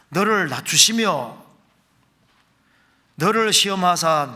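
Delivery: emphatic pulpit reading of verses; scripture reading. Acted. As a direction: drive each verse phrase home, firmly. Rereads verses while preaching. (힘주어 읽는 성경 말씀)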